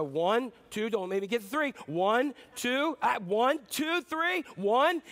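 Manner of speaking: mock warning count; parent counting. Preacher acting a parent counting down a child, hammed-up rising count. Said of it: "many of us will go".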